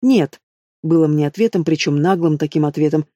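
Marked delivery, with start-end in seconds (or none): 0.0-0.4 high sharp refusal; flatly refuse, lifted; defiant no. Acted.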